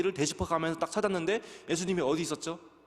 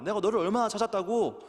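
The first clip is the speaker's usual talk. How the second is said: higher, louder exasperated mother; mother Mary scolding her son; 6 semitones higher, 4 dB louder than usual. Retold or imitated. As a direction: scold the lost child like a frantic mom. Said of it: "라고 어머니 마리아가 예수님께 말씀을".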